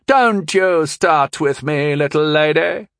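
exploding. A narrator's reading. Mother exploding at her daughter, furious. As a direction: bite off each word in rage. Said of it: "Christine exploded".

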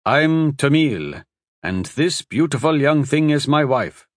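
a hint of a doting old man. Husband introduces himself proudly.

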